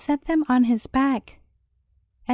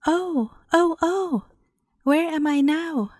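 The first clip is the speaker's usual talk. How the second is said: higher, bruised moans; moaning priest; 3 semitones higher than usual. A narrator's reading. Priest pecked by geese moans to the thief, dazed. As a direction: groan it out as the battered priest.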